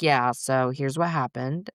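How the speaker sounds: slow, matter-of-fact report; calm mother calmly telling her brother what happened. Retold or imitated. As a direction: lay out just the facts, unmoved. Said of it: "like, factual".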